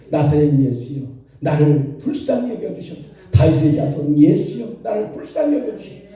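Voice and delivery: preacher imitating an earnest plea; earnest crying out. Blind beggar calls to Jesus for mercy, earnest imitated cry. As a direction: call out pleadingly, pitch climbing toward the end. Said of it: "막 간절하게 외쳐 부릅니다".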